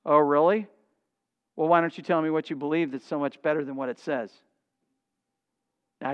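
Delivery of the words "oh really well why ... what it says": low, quiet sarcasm; mock-innocent question with a sarcastic edge; low-key, quick sarcastic challenge. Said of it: "most sarcastic voice".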